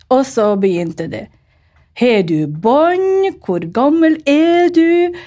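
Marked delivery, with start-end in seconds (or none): 2.0-5.1 high, slow prying questions; pry like a curious old neighbour; curious village woman. Retold or imitated. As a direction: neighbours firing questions at the new bride. Village women quizzing her.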